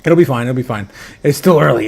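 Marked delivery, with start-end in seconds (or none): 0.5-0.9 a quiet, lower second take; softer echo. Shown as a demonstration. Streamer reassures the chat, then softly echoes it. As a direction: repeat it lower and softer, to yourself.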